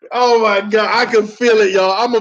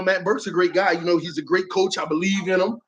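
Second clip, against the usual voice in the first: imitating Rizzi; 5 semitones lower, 6 dB quieter than usual. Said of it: "I can hear it now".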